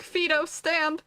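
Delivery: slow, commanding "Fido, stand!" to a dog; lightly mocked dog-owner command. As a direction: order a dog to stand, drawn out. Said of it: "I'm like".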